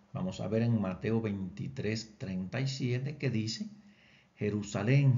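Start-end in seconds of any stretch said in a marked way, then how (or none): 4.4-5.2 Jerusalén called out louder, a strong lament; calling out loud. Shown as a demonstration. Teacher reading the Bible calls out to Jerusalén, loud lament. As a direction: call Jerusalén out loud, as if summoning the city. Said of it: "estamos como llamándola".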